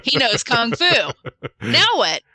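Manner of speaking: imitated panic, high and urgent; mock frantic outburst, pitch climbing; freaking out. Fedak turns to Schwartz after Zach leaves, acting out freaking out. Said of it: "he's all freaking out".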